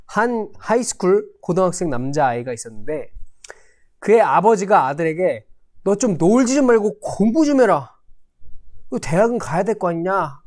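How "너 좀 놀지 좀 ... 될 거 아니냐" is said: mildly scolding parent, pitched up at first; retold fatherly warning. Father warning his high-school son to study, mildly scolding. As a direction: nag lightly as a warning father would. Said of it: "몇 번이나 경고를 했다고 합니다".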